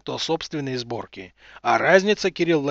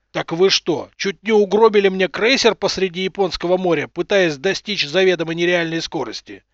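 simmering anger; 3 semitones higher, 5 dB louder than usual. Acted. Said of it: "снова начал закипать Руднев".

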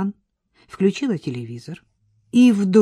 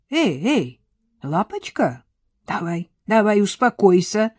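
gentle calming; soothing old man; 2 semitones higher than usual. Acted. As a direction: settle her down kindly. Дед успокаивает Настю. (ласково, успокаивающе)

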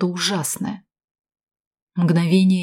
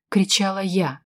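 plain reading voice

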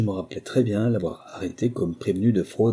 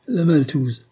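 relieved; 7 semitones higher, 5 dB louder, slower than usual. A narrator's reading. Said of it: "de l'accent rassuré d'un homme qui se sent soulagé".

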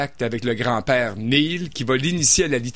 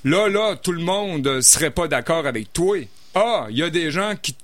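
Québécois; 3 semitones higher than usual. Shown as a demonstration. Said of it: "mais en québécois".

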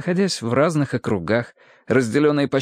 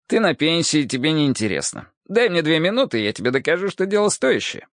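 higher, wheedling and brash; pushy cop voice; 4 semitones higher than usual. Acted. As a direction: hustle him for two minutes. Hardwick pushing. (напористо, развязно)

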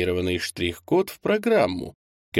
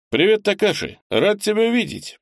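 higher-pitched, lively hello; friendly greeting; 13 semitones higher, 4 dB louder than usual. A narrator's reading. Boss greets the young man he is glad to see, friendly greeting. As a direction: greet him gladly with a lifted voice. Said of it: "поприветствовал я молодого мужчину".

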